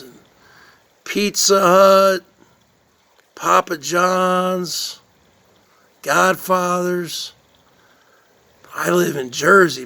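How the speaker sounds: lightly voiced pizza-loving Jersey guy, exaggerated; mock a streamer hyping his pizza run; impression of Spaghetti Noodle Boy. Streamer showing off his pizza to viewers, hammed-up. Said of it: "This is my impression".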